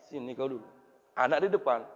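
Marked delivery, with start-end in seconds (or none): 0.1-0.6 through gritted teeth. Retold or imitated. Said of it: "tapi giginya belakang".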